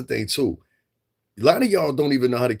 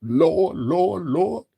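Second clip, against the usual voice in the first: mock fearful plea; 3 semitones higher than usual. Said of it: "Remember the one you said".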